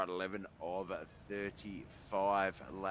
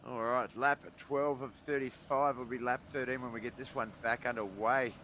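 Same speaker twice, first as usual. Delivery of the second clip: excited; 5 semitones higher, 7 dB louder than usual. Real, not acted. Restart call, excited commentator.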